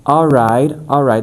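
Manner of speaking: "All right" said with a Portuguese accent, placement up. Shown as a demonstration. Accent coach demos "All right" with a Portuguese accent. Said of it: "this would be a Portuguese, uh, pronunciation".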